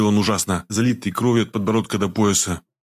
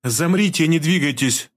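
even command; 6 semitones higher, slower than usual. A narrator's reading. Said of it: "ровным голосом приказала".

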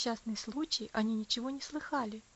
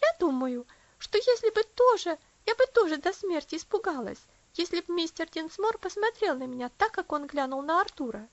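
frightened; 5 semitones higher, 7 dB louder than usual. A narrator's reading. Mary frightened in story.

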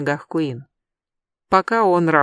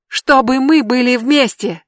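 slow, high, loud desperate yell; 6 semitones higher, 6 dB louder than usual. Acted. Brandi pleads to Adam, slow loud yell. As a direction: drag out the plea. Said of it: "завопила Бренди".

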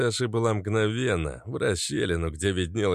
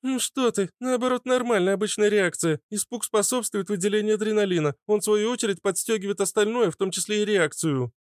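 high-pitched voice talking a friend round; high, encouraging explanation; reassuring; 13 semitones higher than usual. A narrator's reading. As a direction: reassure him in a high character voice. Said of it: "успокоила его Фитилёк".

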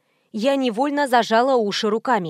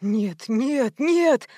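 rising, panicked cry of "нет"; terrified yell; much slower than usual. A narrator's reading. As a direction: scream it in horror at the blood. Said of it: "в полном ужасе проорал Копылов".

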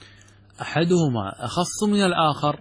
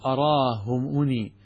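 slow quotation; much slower than usual. Shown as a demonstration. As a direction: quote read very slowly. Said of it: "يقول ابن الأثير".

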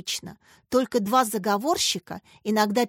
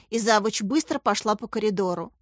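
ordinary delivery, nothing marked

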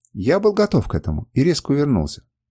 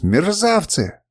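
yelling; 7 semitones higher, much slower than usual. A narrator's reading. Kernus at his fleeing men, furious high yell. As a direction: hurl the insult at the deserters. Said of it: "завопил Кернус".

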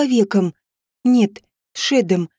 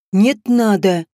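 angry retort; 3 semitones lower, slower than usual. Acted. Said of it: "гневно сказал он".

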